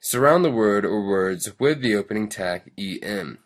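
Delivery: loud, peppy tutorial read; lesson read-aloud. Acted. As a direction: read the instructions out with big lively emphasis. Reads the lesson text aloud.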